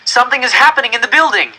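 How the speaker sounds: high, loud urgent warning; boy alerting his mother, scared; alarmed. Acted. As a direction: burst in with the frightening news. Boy warns mother of danger.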